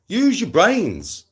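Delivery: slow, high and loud, spelling it out; exasperated, slow scolding. Real, not acted. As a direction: drag each word out at the dumb trolls. Ranting at social media trolls.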